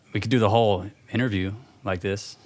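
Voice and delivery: casual American-accented offer. Shown as a demonstration. British actor offering to do the interview, in American accent. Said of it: "I could talk like an American".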